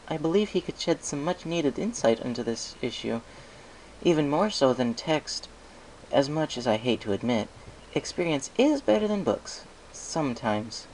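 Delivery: lightly voiced thoughtful scholar; a hint of a wise mare musing; Twilight's voice. Twilight lectures on experience.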